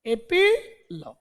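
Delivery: "एपीलॉग" drawn out slowly; slow word. Shown as a demonstration. Teacher introducing a new word, slowly. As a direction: stretch "एपीलॉग" syllable by syllable.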